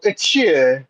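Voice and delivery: imitated French sneeze; French-style sneeze. Shown as a demonstration. Showing friends how foreigners sneeze, French-style fake sneeze. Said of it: "French people might go".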